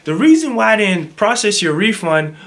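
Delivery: lightly mimicked clerk, starting high; imitated excuse-maker. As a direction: mimic her breezily launching into an excuse. Voicing the woman's excuse.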